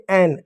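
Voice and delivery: "एन" said with an open ऐ vowel, then न; ऐ sound in एन. Shown as a demonstration. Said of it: "ए का उच्चारण आप ऐ के रूप में करेंगे". ("एन" में शुरू का ए, ऐ जैसा बोलें)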